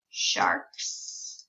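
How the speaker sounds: whispered model word, no voice. Shown as a demonstration. Teacher whispering the word sharks to the child.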